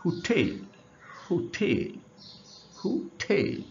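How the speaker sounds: হুটেল with a light হু and a punched টেল; stress on TEL. Shown as a demonstration. Teacher demonstrating hotel's pronunciation, stress on টেল in হুটেল. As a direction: hit the second syllable of হুটেল each time. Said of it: "ঠেল জোরে".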